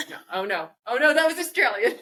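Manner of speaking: put-on Jersey accent. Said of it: "I don't even know if I can do a Jersey accent".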